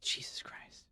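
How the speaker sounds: breathy exasperated whisper under the breath. Real, not acted. Streamer muttering to himself after a rant, whispered. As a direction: sigh it out to yourself, spent. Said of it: "exasperated aside".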